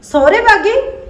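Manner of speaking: can't believe what she just heard; shocked echo. Acted. Sister-in-law echoes Harpreet's news on the phone, stunned.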